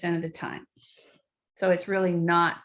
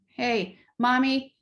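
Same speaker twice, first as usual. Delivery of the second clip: demanding; 4 semitones higher, slower than usual. Retold or imitated.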